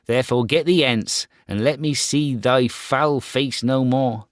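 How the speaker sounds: proud boy, voiced high and loud; a scornful young prince turning away a beggar; Star Child. Proud boy scorning a beggar woman, high and loud.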